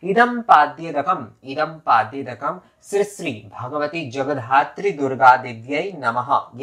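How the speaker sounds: measured mantra demonstration for learners; mantra recitation. Shown as a demonstration. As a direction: recite the Sanskrit offering deliberately, slowing on the closing words. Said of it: "उसे लेकर आपको कहना है".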